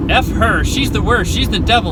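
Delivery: venting an imagined rage at her ex; pretend rage. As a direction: fake the fury she can't feel. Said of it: "why can't I be like".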